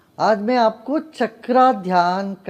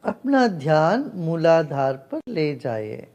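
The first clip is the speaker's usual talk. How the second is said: guided meditation. Real, not acted. (ध्यान कराती शांत, ठहरी हुई आवाज़)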